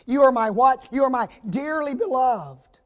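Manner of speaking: rally the congregation; loud prompt. Acted. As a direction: call it out and make them answer. Preacher quizzing congregation, loud.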